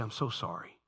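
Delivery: low, soft, subdued apology; humble apology. Shown as a demonstration. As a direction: demonstrate a hushed apology. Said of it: "that's how I say".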